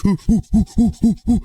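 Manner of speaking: high, breathless oohing; excited oohs. Real, not acted. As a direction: squeal with delight. Spots iron, excited.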